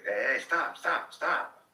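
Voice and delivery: high, loud repeated stop; sudden high yelling to stop the kids; panicked outburst. Retold or imitated. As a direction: blurt it out in a germ panic. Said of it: "outbursts where I just would say".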